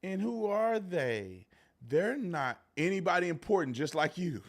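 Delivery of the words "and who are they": slow mocking imitation. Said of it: "She's talking slow".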